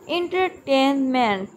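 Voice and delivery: एंटरटेनमेंट broken into its syllables. Shown as a demonstration. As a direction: sound out एंटरटेनमेंट part by part. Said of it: "ये दो हैं". (एंटरटेनमेंट को syllable में तोड़कर)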